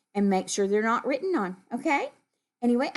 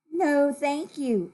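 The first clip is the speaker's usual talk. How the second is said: slow, higher, polite no; kind refusal; 5 semitones higher, slower than usual. Acted. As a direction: decline kindly, drawing it out. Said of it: "is the kind way".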